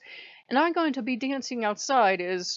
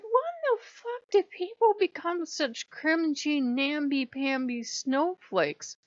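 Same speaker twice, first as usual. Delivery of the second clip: higher, slow and dragged out with disdain; slow sneering scorn; 5 semitones higher, slower than usual. Retold or imitated. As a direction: sneer the words out slowly. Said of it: "I said".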